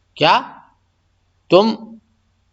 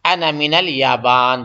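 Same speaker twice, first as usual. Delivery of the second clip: slow demo phrase; 4 semitones lower, slower than usual. Shown as a demonstration. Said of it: "بولے گا".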